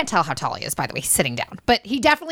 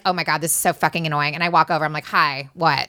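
bratty; 6 semitones lower, faster than usual. Retold or imitated. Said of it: "You're being so bratty".

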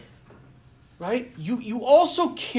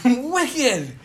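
toned-down echo of an Irish cry; Irish accent; 4 semitones higher than usual. Retold or imitated. Preacher quoting the Irish priest to make his point, mild Irish accent. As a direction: repeat it with a light Irish lilt, slightly raised. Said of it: "such a great way of saying".

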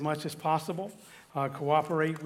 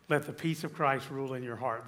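soft scripture reading; 2 semitones lower, 5 dB quieter than usual. Acted. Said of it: "That's the heart of peace right there".

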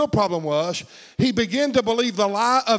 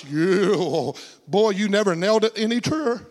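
wry agreement. Acted. Mock agreement with the devil.

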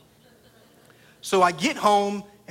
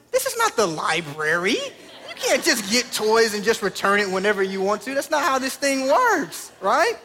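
indignant dad; 3 semitones higher than usual. Retold or imitated. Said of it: "And I'm like".

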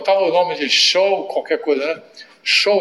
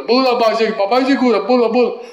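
put-on higher, louder Arab-accented coaxing, "papai" as "babai"; hammed-up Arab-accented father urging his son to jump; 7 semitones higher, 4 dB louder, faster than usual. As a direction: egg the kid on in a mock Arab accent. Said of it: "o pai é árabe".

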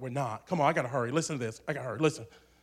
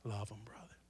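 a soft, lower whispered confidence; 6 semitones lower, 17 dB quieter than usual. Real, not acted. Preacher leaning in to tell Christians, whispered. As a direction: whisper it like a secret. Intimate exhortation.

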